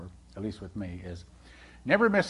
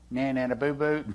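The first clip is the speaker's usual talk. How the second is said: put-on childish taunt; 3 dB quieter than usual. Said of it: "No, you don't".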